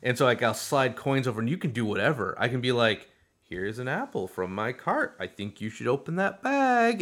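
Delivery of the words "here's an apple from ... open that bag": playful Cockney sing-song, climbing high; mock-Cockney nudge, rising to a high finish; Cockney accent. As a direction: put on a sly Cockney voice. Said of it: "we do this Cockney accent".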